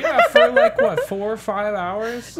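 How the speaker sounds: high, loud laughing jab; cracking up mid-question; laughing tease. Real, not acted. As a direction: laugh it out while teasing him. Teasing friend about playing time.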